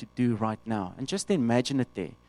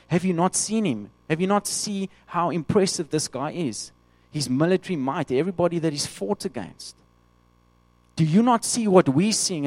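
incredulous soldiers; 4 semitones higher than usual. Retold or imitated. Soldiers answer David.

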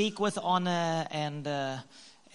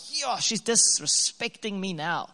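hurt inner voice. Retold or imitated. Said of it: "my male interpretation was like".

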